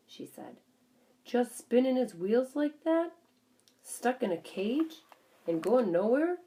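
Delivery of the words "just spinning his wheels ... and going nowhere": grim. A narrator's reading. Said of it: "Mister Brisbane's voice was so grim".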